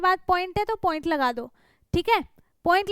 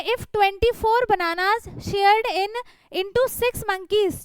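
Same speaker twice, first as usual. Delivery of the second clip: reading slowly; much slower than usual. Shown as a demonstration. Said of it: "reading the question slowly".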